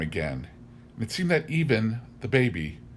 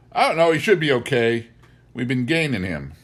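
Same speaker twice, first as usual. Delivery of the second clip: dim-witted farmhand; 3 semitones higher, 5 dB louder than usual. Acted. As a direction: answer cluelessly and sure of it. Elwyn gives a dim answer.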